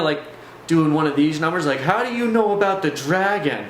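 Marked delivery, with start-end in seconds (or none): 1.8-3.7 imitating a rattled friend, pitched up; mild mock panic, higher voice; freaking out. Friend confronted about his dragon, freaking out. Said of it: "he's, like, really freaking out".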